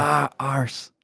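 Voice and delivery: Scottish "arse" with a rolled r; "arse" drawn out, Scottish. Shown as a demonstration. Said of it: "how do they say arse?".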